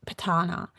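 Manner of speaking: Patana with a T, puh-TAH-na; demonstrated pronunciation. Shown as a demonstration. Host repeating the tribe's name for viewers, demonstrated pronunciation. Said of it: "like it has a T in it".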